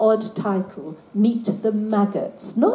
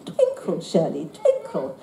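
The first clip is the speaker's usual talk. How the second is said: twinkle; 4 semitones lower than usual. Retold or imitated. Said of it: "her mother apparently always used to say".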